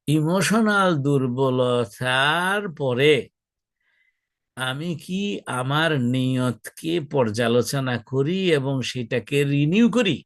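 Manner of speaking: slow, deliberate delivery, drawing out the words; emphatic self-check question. Acted. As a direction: pose it slowly, word by word.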